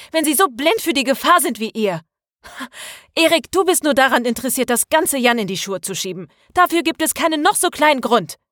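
high-pitched, indignant tirade; working into a rage. A narrator's reading. Maria scolds her three friends for ignoring the danger, working into a rage. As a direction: rant at them, pitch well up. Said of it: "sich richtig schön in Rage zu reden".

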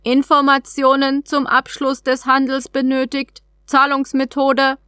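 lightly voiced alien vending machine; alien trade capsule. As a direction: read it like a polite automated terminal. Capsule repeats demand.

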